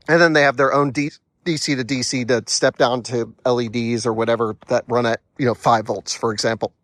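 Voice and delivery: talking through hiccups; speaking while hiccuping. Real, not acted. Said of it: "forgive me 'cause I have the hiccups".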